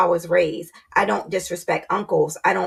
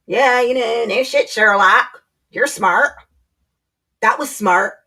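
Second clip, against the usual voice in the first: sarcastic mock; 2 semitones higher, slower than usual. Sarcastic wife mocking her husband, sneering.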